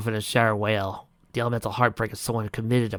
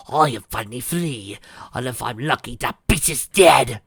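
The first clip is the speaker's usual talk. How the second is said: snarling; 3 dB louder than usual. Acted. Melody gloating through Octavia's body. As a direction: snarl it as the possessing spirit. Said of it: "Melody snarled".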